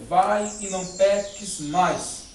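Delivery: slow, grave words of Jesus; solemn Jesus. Acted. Preacher as Jesus, sending the sinful woman away, slow and solemn. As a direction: let each word land slowly, gently.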